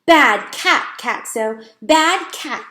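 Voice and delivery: loud, high scolding; shouting scold. A narrator's reading. Girl shouting at the cat, scolding. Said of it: "he heard her shout".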